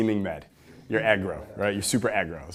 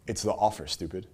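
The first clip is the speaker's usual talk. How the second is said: Dan Kennedy's saying, quieter; 2 semitones lower, 4 dB quieter than usual. Retold or imitated. Quoting Dan Kennedy's saying to the audience, soft and blunt. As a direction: toss the punchline off quietly and bluntly. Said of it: "that's how he would say it".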